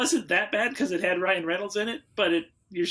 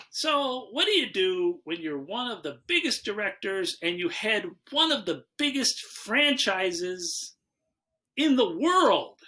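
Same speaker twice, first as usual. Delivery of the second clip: dramatic host intro; slower than usual. Pretend.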